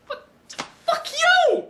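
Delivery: high, loud furious yelp; angry outburst. Acted. Yelling at the kid with the knife, loud and high. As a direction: fling it at the screen. Reviewer snaps at film character.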